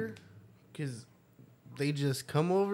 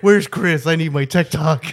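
mock whiny shout; 10 dB louder than usual. Mock visitor plea.

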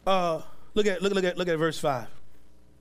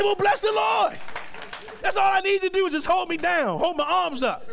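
excited exclaim; 9 semitones higher than usual. Retold or imitated. Pastor's reply to his church.

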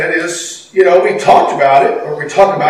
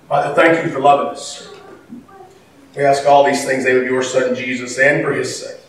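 public prayer; faster than usual. Real, not acted. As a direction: pray earnestly, easing down toward the close. Leads the congregation in prayer.

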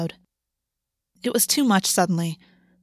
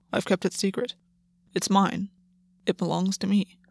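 small and quiet, softer; 5 dB quieter than usual. A narrator's reading. Gwen admitting his secret, small and quiet. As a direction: confess it in a small voice. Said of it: "His voice was small as he said it".

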